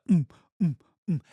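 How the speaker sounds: short "mm" thumps for bass heard through walls; imitated muffled beats. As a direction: hum the thud of a distant concert beat. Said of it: "You could hear the beats".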